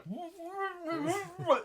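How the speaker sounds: high muffled hum through a gag; muffled gagged moan. Acted. Game master voices gagged Stardust waking, muffled moan. Gagged character trying to speak.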